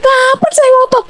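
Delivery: high, forceful protest; insistent outburst. Shown as a demonstration. Wife demonstrating her ngotot to husband, high insistent protest. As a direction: snap the question back, all pitch and push. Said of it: "Nah, ini baru".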